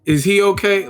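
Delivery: high, smug mock fighter; mock petty boxer. Podcaster mimicking Charlo at an interview, high and mocking. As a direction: taunt the beaten man with a singsong.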